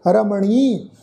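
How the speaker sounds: ਰਮਣੀ with a long, stretched final ee; drawn-out final vowel. Shown as a demonstration. Teacher demonstrating the vowel mark, ਰਮਣੀ with its last vowel held. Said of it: "ਉਹਨੂੰ ਲਮਕਾ ਕੇ ਉਚਾਰਨ ਕਰਾਂਗੇ".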